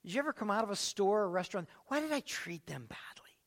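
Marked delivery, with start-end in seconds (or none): 1.8-3.4 breathy whispered question to yourself; whispered regret. Retold or imitated. Leaving a restaurant, asking yourself in a whisper. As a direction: whisper it like a guilty afterthought.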